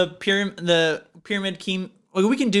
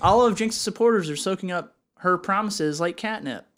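newscaster voice; 4 semitones higher than usual. Acted. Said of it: "I'm more of the newscaster talking".

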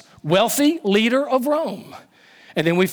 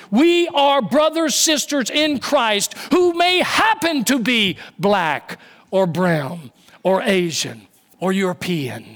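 preaching shout. Acted. Preacher to congregation, rising to a slow shout. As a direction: hammer it home to the congregation. Preacher repeats key line louder.

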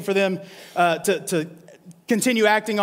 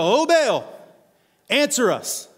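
calling out to Baal; 4 semitones higher, slower than usual. Acted. Prophets of Baal crying out, pleading calls. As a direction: beg a silent god to answer. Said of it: "They start calling out to Baal".

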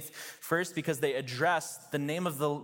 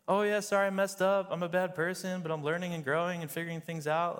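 mock fake apology; 4 semitones higher than usual. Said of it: "apology videos on YouTube from vloggers being like".

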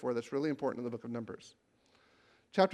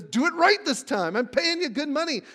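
angry king demand; 8 semitones higher, 5 dB louder than usual. Retold or imitated. Balak gets angry and says.

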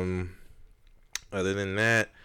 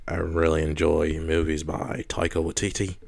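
put-on New Zealand accent. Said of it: "You gotta do it in a New Zealand accent".

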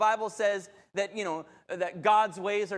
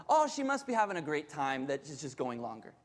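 low, soft self-reassurance; easygoing, quiet and low; calm reasonable thought; 7 semitones lower, 4 dB quieter than usual. Acted. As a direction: think it through calmly, pitched down. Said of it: "this is how I should have thought".

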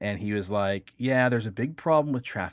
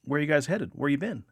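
patrolman; 7 semitones higher, 4 dB louder than usual. Retold or imitated. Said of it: "he's like".

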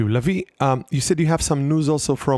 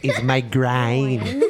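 English accent; much slower than usual. Shown as a demonstration. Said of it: "How do you say groin in English accent?".

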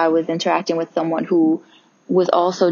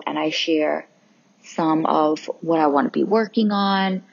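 yawning. Real, not acted. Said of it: "And I'm yawning right now".

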